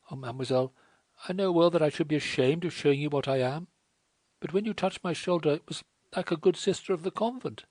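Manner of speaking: put-on a wretched girl begging her to leave; distressed French girl. A narrator's reading.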